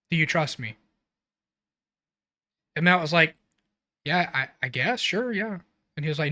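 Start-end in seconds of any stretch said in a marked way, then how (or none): 0.1-0.8 quietly serious retold question. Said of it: "Steve very seriously said". 4.1-5.6 softly unsure, stumbling imitation; hesitant agreement. Acted hesitant reply to Steve.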